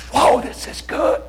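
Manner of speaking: high, drawn-out mock-excited whoa; thrilled reaction. Acting out Holy Spirit's excited reaction.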